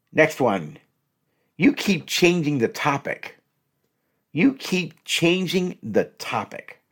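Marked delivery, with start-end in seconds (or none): 1.6-6.8 slow, pointed accusation; slow accusing. Shown as a demonstration. Demonstrating a blaming line to a partner, slow and pointed. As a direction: drag out the blame. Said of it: "don't say it this way".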